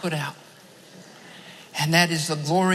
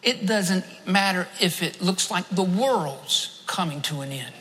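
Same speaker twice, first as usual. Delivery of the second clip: voice of God; 2 semitones lower, 4 dB quieter than usual. Retold or imitated. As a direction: speak it gently and deeply, as a divine whisper to the heart. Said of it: "God spoke to my heart and he said".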